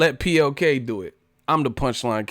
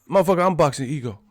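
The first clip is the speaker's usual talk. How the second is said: hyped up; 5 semitones higher, 5 dB louder, faster than usual. Real, not acted. Excited self-hype outburst.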